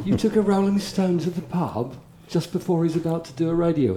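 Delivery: imitated high-pitched outrage; appalled disbelief. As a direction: spell out the blunder, aghast. Colleagues scold him for the blunder.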